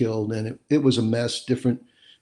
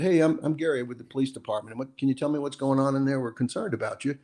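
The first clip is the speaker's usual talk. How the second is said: calm hostage negotiator; 4 dB quieter, faster than usual. Shown as a demonstration. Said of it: "now you got".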